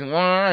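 a short high mock "Wah" of a crying baby; imitated baby cry. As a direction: squeal it like a wailing infant. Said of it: "the baby cries".

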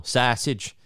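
a hint of Chicago Superfans accent. Showing how outsiders think Chicagoans talk, mock Chicago accent. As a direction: lightly imitate a thick Chicago accent on the word. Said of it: "like the Superfan sketch, like the Ditka".

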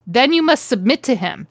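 measured, understated threat; mock menacing. Repeating Snape's warning for stunned friends, mock menacing. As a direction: deliver a mildly theatrical warning. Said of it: "Snape ejaculated menacingly".

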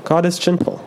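high, chirpy little bird voice; storybook robin, pitched well up; chirping robin. A narrator's reading. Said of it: "chirped the robin".

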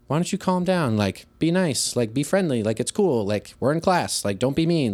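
light, lifted coaxing; easygoing teacher nudge in short phrases; friendly correction. Acted. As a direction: gently chide a student without confronting. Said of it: "in a friendly way correct them".

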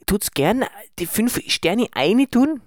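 high, slow, careful Tyrolean; hushed Tyrolean accent. Acted. Host asking listeners for five stars, hushed Tyrolean accent. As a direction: ask deliberately in hushed Tyrolean. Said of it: "Warum flüsterst du?".

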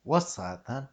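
fair Cockney attempt; Cockney accent. Shown as a demonstration. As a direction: copy the Cockney line. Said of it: "that's pretty good".

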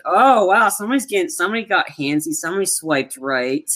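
high-pitched teasing "oh, wow"; mock amazement. Film fan retelling a cheeky coin scene, mock amazement. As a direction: play up a cheeky, amused surprise, lightly.

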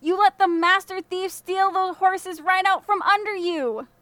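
high, loud, slow furious rebuke; angry yell. A narrator's reading. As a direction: keep yelling, blaming the boys. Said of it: "he yelled".

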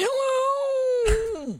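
put-on high quavering old man hello. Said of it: "doing her Harold voice".

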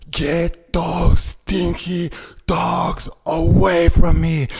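slow, high put-on voice of the stranger; lightly voiced whiny guy; mimicking the man. Imitating the man who complained about the dogs. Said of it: "he goes".

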